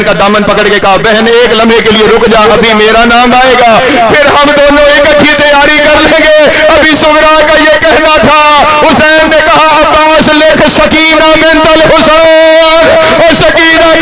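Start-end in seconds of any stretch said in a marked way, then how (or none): 1.0-6.7 rising, pleading sister's voice; a hint of a young girl pleading; pleading lament. 9.8-13.0 father dictating his daughter's name; grieving dictation. Acted.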